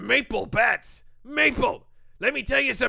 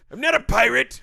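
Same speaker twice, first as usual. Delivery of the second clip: put-on old man voice; 2 semitones higher, 5 dB louder than usual. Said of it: "You just sound like a pirate".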